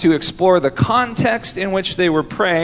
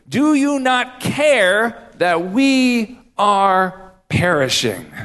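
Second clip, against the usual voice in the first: accusatory; slower than usual. Retold or imitated. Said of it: "It's almost accusatory".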